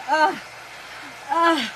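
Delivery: imitation of a passenger's groaning; imitated groan. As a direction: grunt like the man bracing beside you. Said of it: "and he's going".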